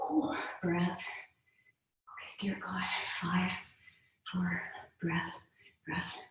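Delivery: breathy whispered count under effort; breathless whispered counting; strained whisper. Real, not acted. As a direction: whisper the count while holding the pose.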